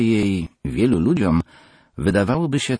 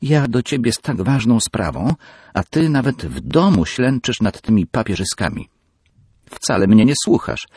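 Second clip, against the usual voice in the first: higher, louder petulant complaint; spoiled daughter; 7 semitones higher, 4 dB louder than usual. Acted. Peggy complains her father ignores her, petulantly. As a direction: sulk loudly at a busy father.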